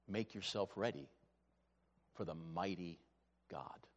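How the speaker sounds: fading down to a whisper on God; softly fading reverence; hushed awe. Real, not acted.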